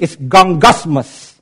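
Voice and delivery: "gongosmos" said slowly, dwelling on the g sounds; Greek word drawn out. Shown as a demonstration. Pastor to congregation, drawing out "gongosmos". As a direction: let "gongosmos" rumble like grumbling. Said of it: "You hear that?".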